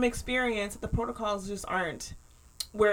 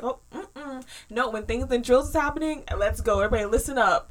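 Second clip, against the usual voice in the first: louder, take-charge imitation of a kid; mock-serious call to attention, building louder; very serious son; 2 semitones higher, 4 dB louder than usual. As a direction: lightly imitate a son rallying everyone for a drill. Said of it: "he gets very serious about things".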